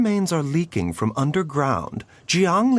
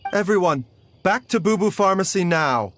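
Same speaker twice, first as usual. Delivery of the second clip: urgent command; 6 semitones higher than usual. Acted. Doctor ordering everyone back to the pharmacy, urgent command. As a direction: snap everyone into motion.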